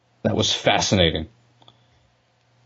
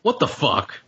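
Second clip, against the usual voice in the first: shocked disbelief; 11 semitones higher than usual. Real, not acted. Shocked reaction to the song.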